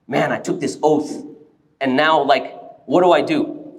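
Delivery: low, subdued voice of regret; mildly acted morning-after regret; regretful. Husband waking after the oath argument, regretful. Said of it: "He's in a state of regret".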